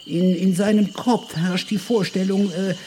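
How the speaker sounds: high, hesitant professor voice full of ums; a pompous scholar stumbling over every word; stammering professor. Acted. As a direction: stumble through it like a fussy old academic.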